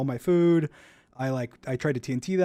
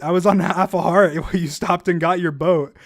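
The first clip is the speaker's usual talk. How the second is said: laughing through the words; 3 semitones higher, 5 dB louder, slower than usual. Retold or imitated. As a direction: laugh while you say it. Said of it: "I, like, laugh and I'm like".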